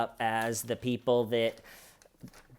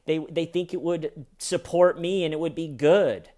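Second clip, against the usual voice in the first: mock scared Wendy; 4 semitones higher than usual. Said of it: "she'll do this thing where she goes".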